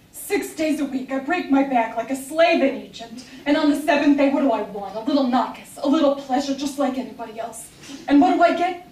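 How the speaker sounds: hammed-up weary complaint; mock-tragic chanting housewife; Missus F's lament. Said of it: "chant something ... Missus F's lament".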